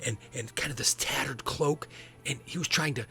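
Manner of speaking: put-on little boy telling a nightmare. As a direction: recount it like a nervous kid.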